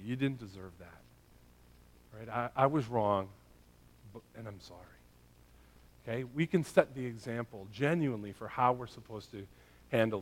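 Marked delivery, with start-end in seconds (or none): 0.0-4.8 sincere apology. Acted. Models a parent's heartfelt apology.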